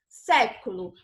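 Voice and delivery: "século" with a wide-open first é; open vowel. Shown as a demonstration. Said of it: "Você percebe que você abre mais a sua boca".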